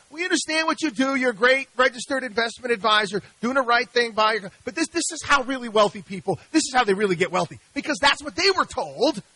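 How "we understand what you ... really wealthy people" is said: high, loud, patronizing reassurance; patronizing reply. Retold or imitated. Investors brushing off their adviser, patronizing and high. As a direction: pat the adviser on the head. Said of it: "investors' reply to Chris".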